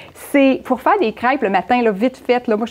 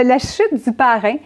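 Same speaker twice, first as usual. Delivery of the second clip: ordinary talk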